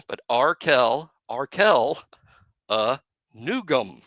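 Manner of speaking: Arkel stretched, then Nugum as NOO-gum; slow tentative Arkel, NOO-gum; trying the name. Shown as a demonstration. Co-host tries the new name, slow and tentative. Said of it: "I think he got that".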